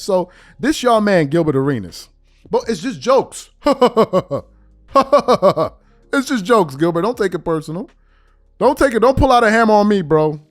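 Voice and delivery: 1 laughing loud. Real, not acted. Laughing, shouting jokes.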